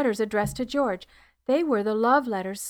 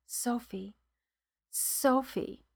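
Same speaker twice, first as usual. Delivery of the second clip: breathy, barely voiced, softer; faint whisper; 6 dB quieter, slower than usual. Dying George calls softly to Sophie, faint whisper. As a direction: murmur the name of his late wife. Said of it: "turned slightly to his left and whispered".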